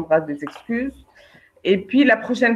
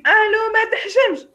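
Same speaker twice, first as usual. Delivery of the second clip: mock angry phone call; 14 semitones higher, 3 dB louder than usual. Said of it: "Au lieu de l'appeler là tout de suite".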